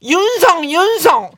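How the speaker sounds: rising call that ends in a shout; calling out a name. Acted. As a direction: call the kid's name like the catchphrase. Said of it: "한번 불러주세요".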